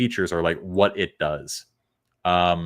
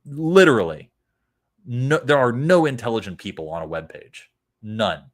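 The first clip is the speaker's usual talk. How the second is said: exaggerated rant; 3 semitones higher, 6 dB louder than usual. Real, not acted.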